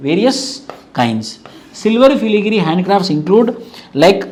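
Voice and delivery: slow, spaced dictation for notes. Acted. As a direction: dictate each phrase slowly so students can write. (నెమ్మదిగా notes చెప్పడం)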